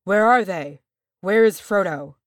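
loud, urgent cry. A narrator's reading. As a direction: call out for the hobbits. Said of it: "cried Gimli".

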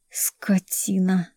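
slow unvoiced whisper through gritted teeth; whispered insult. A narrator's reading. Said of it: "сквозь зубы сказала я".

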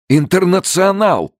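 high, slow excited cry; exclaiming. A narrator's reading. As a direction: call it out with a lift. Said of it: "воскликнул Эл". (восторженный возглас)

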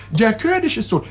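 ordinary talk, nothing marked

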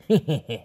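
short gloating chuckle; villain's laugh. A narrator's reading. Captor laughs at the girl's plea, gloating chuckle. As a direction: chuckle menacingly at the captive. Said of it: "Người đàn ông cười to".

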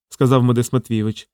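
ordinary talk, nothing marked

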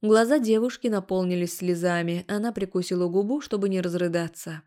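ordinary delivery

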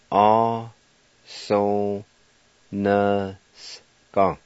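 A, so, na, ska spoken separately; syllable by syllable. Shown as a demonstration. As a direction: give each syllable its own beat. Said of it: "Number three".

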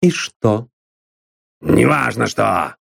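slow gruff bark. A narrator's reading. Drummond barks at Constance, gruff and rude. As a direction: snap it at her like a rude thug. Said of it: "рявкнул он".

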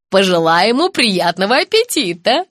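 plain reading voice

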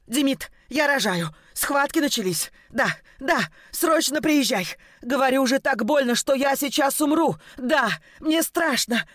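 wife in labour begs her husband on the phone; panicked phone call. Acted. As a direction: beg him to hurry, scared.

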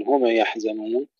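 هم يحزنون with a stray vowel after meem; bounced meem. Shown as a demonstration. Teacher shows what not to say, bounced meem in هم. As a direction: bounce the m of هم into huma. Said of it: "من قلقلتها".

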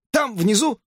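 high squeaky question; hamster worried. A narrator's reading. Hamster asks where, high and squeaky. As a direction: peer down anxiously.

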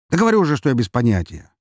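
fast, annoyed insisting; irritated repeat. Acted. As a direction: snap it out impatiently.

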